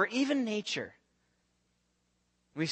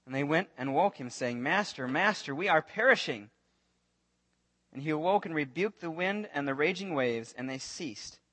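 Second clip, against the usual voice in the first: lower, measured Bible reading; scripture reading; 3 semitones lower than usual. Acted. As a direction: read the passage calmly, like scripture. Reads scripture passage aloud.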